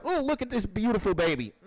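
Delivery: high-pitched fake fawning over a baby; mock cooing. Politician kissing a baby on television, mock cooing. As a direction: coo as if for the cameras.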